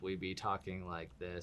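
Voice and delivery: stiff, monotone robot read; robotic voice. Shown as a demonstration. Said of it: "sounds robotic".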